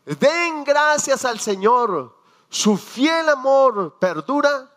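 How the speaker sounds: loud, high, slow proclamation; proclaiming loudly. Shown as a demonstration. Preacher proclaiming the singers' words to the church, loud and high. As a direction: ring it out like a choir leader. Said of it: "lo que cantaban".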